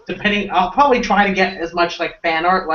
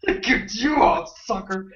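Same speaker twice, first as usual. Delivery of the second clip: laughing taunt; 4 semitones higher, 4 dB quieter than usual. Pretend.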